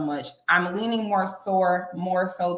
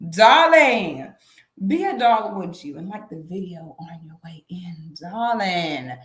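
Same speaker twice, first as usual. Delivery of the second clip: breathy vintage purr; 3 semitones lower, 3 dB louder than usual. Acted. Diva asking for likes.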